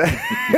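very high, short forced laugh; squeaky put-on ha; fake laughing. Castmates fake laughing at each other, high forced burst. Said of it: "fake laughing at each other".

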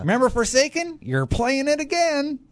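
put-on high, wheezy old prospector; old timer miner voice. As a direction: cackle it out like a grizzled miner. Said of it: "I don't know why I'm doing the old timer minor voice".

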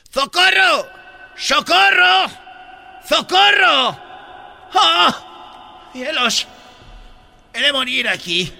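high lisping Castilian yells; hammed-up Castilian calls for rescue; Spanish accent cries. Lost Spaniard calls for help, high Spanish-accented shouts. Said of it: "En España es".

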